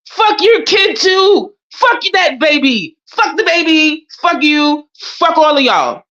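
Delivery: high, drawn-out taunts; gleeful taunting. Real, not acted. Taunting the friend about his baby, high and gleeful. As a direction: relish each insult. Gleeful liberated insult run.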